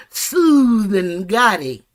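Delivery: slow, mock-silky imitation of her; drawn-out smooth voice. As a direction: stretch it out like a smooth talker. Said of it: "She talks like this".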